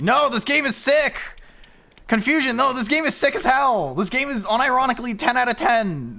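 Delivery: loud, high gushing praise; excited shouting. Real, not acted. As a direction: rave about it at full volume. Gushing over the game.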